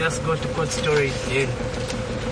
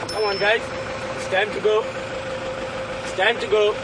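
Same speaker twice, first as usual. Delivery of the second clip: soft coaxing, pitched higher, to the elephants; gentle voice; 7 semitones higher, 3 dB quieter than usual. Real, not acted. Ranger gently coaxing elephants away from the neighborhood, soft and higher-pitched. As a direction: gently urge the herd to move along. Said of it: "we just talk to them in a gentle voice".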